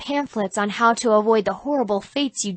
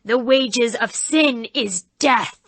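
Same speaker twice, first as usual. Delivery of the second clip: very slow, louder ominous voice; doomed-souls devil; 2 semitones higher, 3 dB louder, slower than usual. Acted. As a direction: intone like a haunted-house devil. Devil actor preaching.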